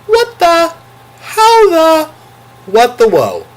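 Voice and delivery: high, loud, squeaky double take; stunned disbelief. Real, not acted. Vlogger reacting to his third-row seat, high stunned disbelief. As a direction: gasp it out like you can't believe your luck.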